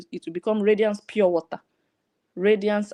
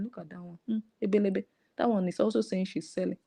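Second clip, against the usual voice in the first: hushed, softer mocking gossip; 6 dB quieter than usual. People gossiping about the seller after she leaves, hushed and mocking. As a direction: mutter it behind her back, a touch scornful.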